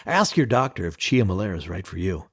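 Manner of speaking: mock drug ad voice. Podcast host jokes about a guide's name as a medication, mock ad voice. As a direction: spoof a pharma ad's closing line.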